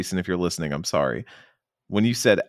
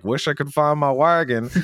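high, mopey lost-wagon guy; hammed-up pitiful NPC; whiny NPC; 8 semitones higher, 3 dB louder than usual. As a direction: sigh it out like a sad villager.

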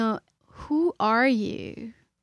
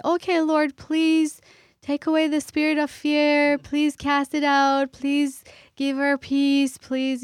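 quick prayer; 5 semitones higher, 4 dB louder than usual. Retold or imitated. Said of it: "I can just jump and say".

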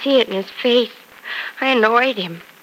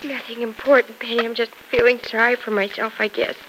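tearful; 3 dB quieter than usual. Acted. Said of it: "what are you crying about?".

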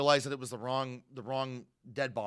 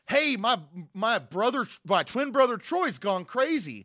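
higher, louder, urgent panicked voice; frantic voicemail; 7 semitones higher, 6 dB louder than usual. Retold or imitated. Edgar warns his uncle by voicemail, panicked and loud. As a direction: blurt it like a scared man on a voicemail. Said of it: "Edgar being like".

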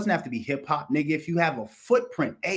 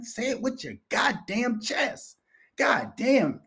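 say it with your chest; 9 semitones higher, slower than usual. Acted. Kevin Hart advice, performed.

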